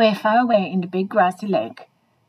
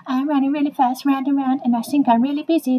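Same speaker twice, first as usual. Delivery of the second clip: slightly raised, lightly mocking human voice; 4 semitones higher than usual. Dog pretending to be a busy human, lightly mocking. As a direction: playfully imitate a self-important human. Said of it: "It's actually us going".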